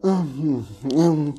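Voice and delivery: mock indistinct hemming; wordless "hmm, hmm" throat noise; imitated throat-clearing. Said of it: "Daham-daham nggak jelas lah".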